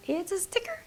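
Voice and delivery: soft unvoiced whisper, lifting at the end; whispered repeat. Real, not acted. Crafter to viewers, whispering the reveal again. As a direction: echo it as a secret.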